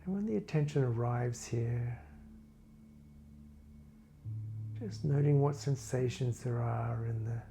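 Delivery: calm body-scan narration, phrases spaced far apart; guided meditation. Real, not acted. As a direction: guide listeners gently through a body scan, unhurried.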